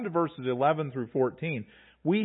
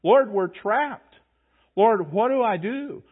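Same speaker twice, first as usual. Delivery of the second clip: higher, louder, slow desperate pleading to the Lord; frantic prayer in a raised voice; panicked cries; 5 semitones higher, 5 dB louder than usual. Retold or imitated. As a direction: cry out as if trapped by an army. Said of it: "We can imagine".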